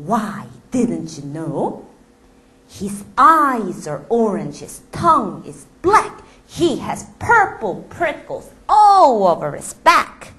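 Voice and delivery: slow, lightly voiced mouse boasting. The mouse scaring the snake with the Gruffalo, boasting. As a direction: list the monster's features slowly.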